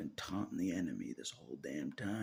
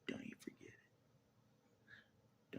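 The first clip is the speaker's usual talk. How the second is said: very slow, soft whisper; whispered warning; 13 dB quieter, much slower than usual. Real, not acted. To the viewers, a slow soft whispered warning. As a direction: breathe the warning out slowly.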